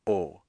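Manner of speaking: "o" closed, as in Spanish. Shown as a demonstration. Teacher comparing it with Spanish, closed "o". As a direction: give a pure closed "o". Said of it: "just like in Spanish".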